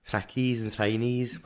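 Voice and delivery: slow Scouse catchphrase; imitated Scouse accent. Imitating a Scouse girl from work, slow Scouse accent. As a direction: draw it out like a Scouser. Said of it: "that's how she does it".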